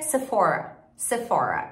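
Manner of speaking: "Sephora" as "suh-FOR-a"; English R in "Sephora", middle stressed; English pronunciation. Shown as a demonstration. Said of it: "Em inglês é".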